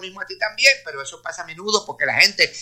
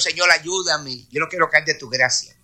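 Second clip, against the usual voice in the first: slow pleading prayer; 3 semitones lower than usual. Shown as a demonstration. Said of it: "yo le digo a Dios".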